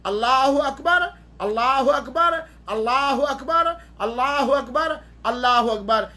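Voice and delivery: five even, lightly called-out takbirs; chant-like count of calls, the last settling; imam's takbir call. Shown as a demonstration. Teacher shows the five extra takbirs, in a light imam's call. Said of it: "पांच मरतबा तकबीर ज़वायद कहेगा".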